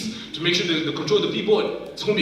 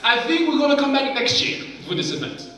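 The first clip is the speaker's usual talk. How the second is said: defeated thought; 10 semitones higher, 4 dB louder than usual. Retold or imitated. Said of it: "That was what I was thinking".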